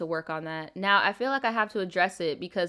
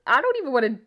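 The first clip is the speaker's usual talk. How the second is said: loud, high, laughing through the words; real helpless laughter; 6 semitones higher, 8 dB louder than usual. Real, not acted. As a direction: barely get it out for laughing. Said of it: "this bitch keep making me laugh".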